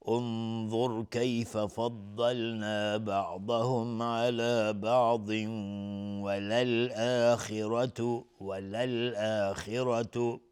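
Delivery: slow, measured tajwid reading; slow recitation. Acted. Teacher reading the verse again for practice. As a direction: recite it slowly phrase by phrase.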